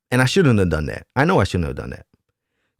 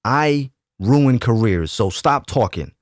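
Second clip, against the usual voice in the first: slow, deliberate mild mock threat; understated angry warning, drawn out; slower than usual. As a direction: spell out "I ruin careers" slowly as a warning. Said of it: "And I was angry when I said this".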